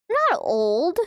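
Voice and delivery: hiccup burp mid-sentence; words broken by a burp. Real, not acted. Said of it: "That was like a hiccup burp at the same time".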